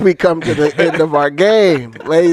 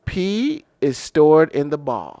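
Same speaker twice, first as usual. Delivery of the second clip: Air Bud; slower than usual. Retold or imitated. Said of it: "I think Air Bud said".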